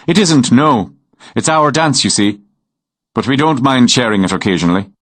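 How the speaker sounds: a hint of an amused Irish lilt; Irish farmer Murphy. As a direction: genial countryman speaking. Narrator voices Irish farmer Murphy.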